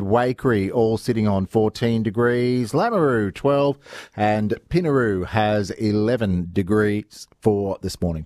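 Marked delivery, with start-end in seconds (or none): 2.7-8.2 reading through hiccups; breath caught by hiccups mid-read. Real, not acted. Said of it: "got the hiccups".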